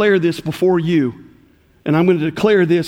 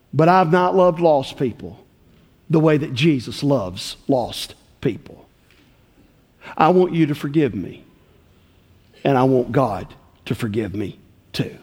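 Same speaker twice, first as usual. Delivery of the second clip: retold penitent plea, low and subdued; understated remorse with solemn pauses; broken confession; 4 semitones lower than usual. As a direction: confess gently as the repentant woman, sinking lower. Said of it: "squalling and weeping and broken".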